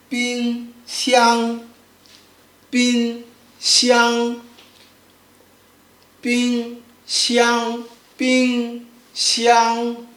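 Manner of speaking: BING XIANG, each syllable held level; slow bing xiang with no rise or fall; first tone. Shown as a demonstration. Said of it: "make sure it's flat".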